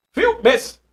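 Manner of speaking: "Filmes" said in two parts, fil - mes; "Filmes" with a small break before "mes"; divided word. Shown as a demonstration. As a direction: lightly separate the two syllables of "Filmes". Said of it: "Dividiu duas vezes por mês".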